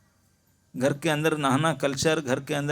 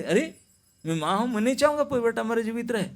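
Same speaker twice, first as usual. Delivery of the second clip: urgent insistence; 6 semitones higher, faster than usual. Acted. Mother insists to crocodile.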